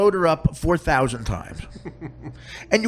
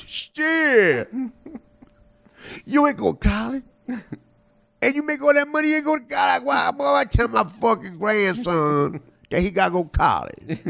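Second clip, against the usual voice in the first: mock indignation, pitched up then falling; indignant disbelief; 2 semitones higher than usual. Woman amazed at a comic without college, indignant disbelief. Incredulous woman retold in an exchange.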